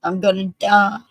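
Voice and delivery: retold screaming. Veteran crying out within earshot of cops, retold screaming. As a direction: imitate a desperate man's cry, held partly back. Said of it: "he starts screaming".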